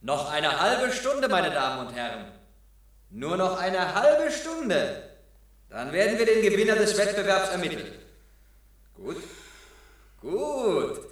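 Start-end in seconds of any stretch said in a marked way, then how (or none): 0.0-7.9 announcer. Acted. Ansager im Wettbewerb.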